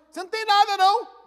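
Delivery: high, loud careless doctor; mock doctor. Pastor mocking a doctor who stays silent, high mock voice.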